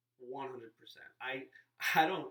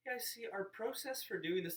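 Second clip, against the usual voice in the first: higher-pitched imitation of a pretentious speaker; mock pretentious; 8 semitones higher than usual. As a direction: put on airs, with "process" as PROH-sess. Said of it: "it's so pretentious".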